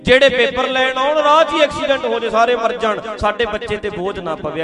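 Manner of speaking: high, fast dramatic aunty wail. Retold or imitated. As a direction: ham up a fretting mother. Mocking parents' imagined prayer. (ਉੱਚੀ ਨਾਟਕੀ ਮਾਸੀ ਦੀ ਆਵਾਜ਼)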